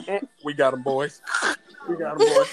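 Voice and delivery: cop voice. Retold or imitated. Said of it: "what the, uh, officers be saying".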